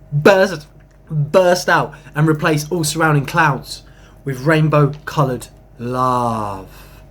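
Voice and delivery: slow, lofty poetry recital; poem reading. Acted. Reading his own spiritual poem to viewers, slow and lofty. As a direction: read it like a sacred verse, drawn out.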